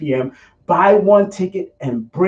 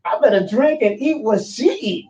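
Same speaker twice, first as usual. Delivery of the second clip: amazed; 8 semitones higher than usual. Acted. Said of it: "you'll say".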